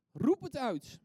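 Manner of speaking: loud, high rallying cry; emphatic call. Shown as a demonstration. Preacher urges the congregation to cry out, loud emphatic call. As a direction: call it out in one loud burst. Preacher calls out his principle.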